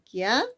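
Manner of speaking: "Kiara" in two pieces, rising "Kia", pause, "ra"; split into syllables. Shown as a demonstration. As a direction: sound out "Kiara" as Kia, then ra. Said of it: "¿Cómo se separa?".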